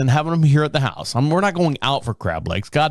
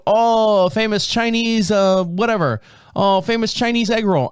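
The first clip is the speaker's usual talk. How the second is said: imitating the chef; 7 semitones higher than usual. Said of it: "he kept going".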